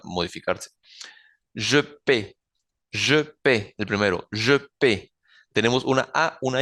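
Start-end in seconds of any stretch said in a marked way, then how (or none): 1.5-3.7 "paie" said as "pe", final E silent; AI como E. Shown as a demonstration. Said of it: "la A I suena E". 4.3-5.1 "paie" said as a short "pe"; AI como E. Shown as a demonstration. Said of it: "La E al final no suena y la A I suena E".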